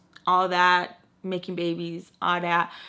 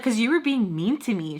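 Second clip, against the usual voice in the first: mock-hurt, higher-pitched complaint; 4 semitones higher, 3 dB louder than usual. Friend telling her she was being mean, retold hurt. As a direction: imitate a wounded friend's protest. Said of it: "That's what hurt her the most".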